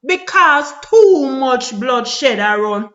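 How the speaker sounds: slow, tearful lament; crying. Real, not acted. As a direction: speak through real tears, slowly. Lamenting violence in Jamaica.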